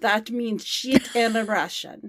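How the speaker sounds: slow Russian accent; Alexei. Shown as a demonstration. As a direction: explain slowly in a Russian accent. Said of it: "said to me".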